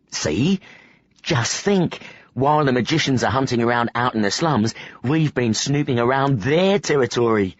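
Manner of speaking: a lightly voiced cheeky boy; boy proud of snooping on magicians; gleeful boy Sari.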